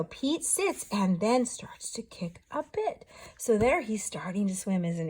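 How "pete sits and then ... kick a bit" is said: whispered. Shown as a demonstration. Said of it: "So here we go".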